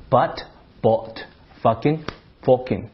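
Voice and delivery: fucking with a rounded "o" vowel, "focking"; Bath accent. Shown as a demonstration. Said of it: "把那个啊发成了哦".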